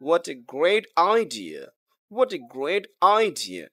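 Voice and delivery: slow exclamation, "idea" falling away; teacher's drawn-out exclamation demo; exclamatory intonation. Shown as a demonstration. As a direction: stretch "great idea" and let it drop. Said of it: "exclamatory sentence".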